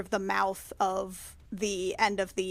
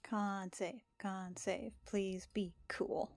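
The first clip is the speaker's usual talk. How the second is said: whisper; 13 dB quieter, slower than usual. Real, not acted. Player pleading before dice roll.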